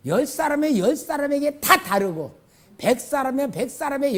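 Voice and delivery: high, loud, driving sermon voice; fervent preaching. Acted. Pastor urging the congregation, preaching loudly. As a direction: press the point home to the congregation.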